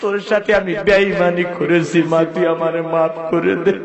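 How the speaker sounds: son's sobbing plea. Acted. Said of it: "ছেলেটা হাউমাউ করে কাঁদে।".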